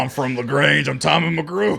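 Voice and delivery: hammed-up Texan drawl; mock small-town Texan voice; put-on Texas accent. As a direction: introduce yourself in a fake Texas accent. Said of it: "That's how Texans sound".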